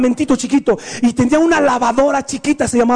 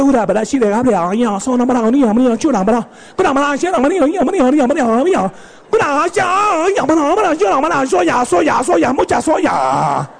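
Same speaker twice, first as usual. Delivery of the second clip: mock Japanese wife. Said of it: "la esposa, toda abnegada, le dice".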